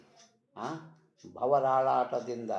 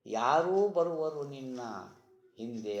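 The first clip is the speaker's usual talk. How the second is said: verse declaimed; 2 semitones higher than usual. Acted. Preacher quoting the saint to the departing soul, verse declaimed.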